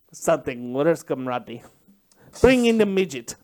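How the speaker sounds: low, sinister mock Russian villain; a lightly done Russian accent, gloating. Torturer threatening the captive soldier in a Russian accent. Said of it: "You do a really good Russian accent".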